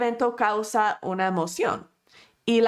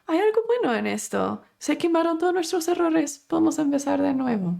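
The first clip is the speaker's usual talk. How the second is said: higher, upbeat, and quick at the end; very positive; 6 semitones higher, faster than usual. Retold or imitated. Edison cheerfully telling his employees the fire is good news. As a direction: sell the bright side with cheer. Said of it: "muy positivo".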